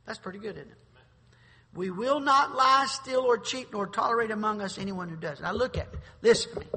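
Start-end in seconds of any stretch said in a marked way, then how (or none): 1.7-5.4 proclaimed creed. Acted. Repeating the honor code again. 6.2-6.7 louder, punched call for attention; commanding call. Real, not acted. Preacher demanding attention.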